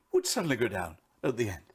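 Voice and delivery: imitated broadcaster's drop on "at the end"; falling sentence endings. Coach illustrates a late broadcaster's habit, falling endings. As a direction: start up, then let "end" drop away. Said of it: "used to talk like that and finish on the end".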